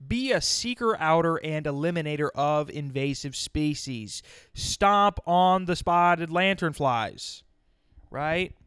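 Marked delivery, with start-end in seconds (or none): 4.5-7.4 louder, slow, stomping emphasis; emphatic rallying call. Real, not acted. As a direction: urge them on, hammer each word.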